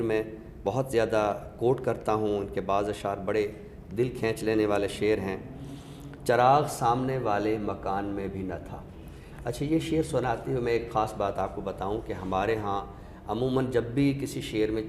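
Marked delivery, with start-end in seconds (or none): 6.3-8.8 measured ghazal recital, a touch of weight; slow poetic recitation. Acted. Critic quoting a couplet for the listener, slow recitation. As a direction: recite the couplet slowly, savouring each word. Quotes Jamal Ehsani line.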